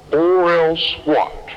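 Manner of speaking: slow, lightly voiced inner voice of God; God's question. God, asking him in his heart one last time, slow and gentle. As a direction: ask it gently, stretched out.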